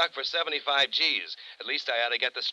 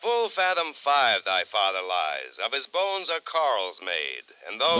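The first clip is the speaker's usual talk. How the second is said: reciting poetry; 4 semitones lower than usual. Acted. Insurance man quoting Shakespeare to Johnny, mock-solemn. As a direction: lightly ham up the Shakespeare. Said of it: "Poetry, you Philistine".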